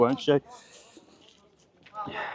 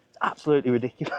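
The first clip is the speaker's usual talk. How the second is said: laughing disbelief; much faster than usual. Real, not acted. Laughing rant.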